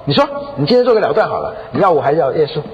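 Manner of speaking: retold insistent ultimatum; pressing husband. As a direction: push relentlessly for a choice. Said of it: "就趁机会就逼她".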